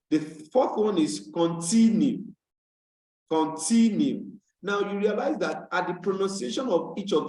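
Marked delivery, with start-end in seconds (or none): 1.3-4.2 continue with TIN stressed, then falling; stress on middle syllable. Shown as a demonstration. Teacher models word stress for class, stressed TIN in continue. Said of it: "the accent will be on T".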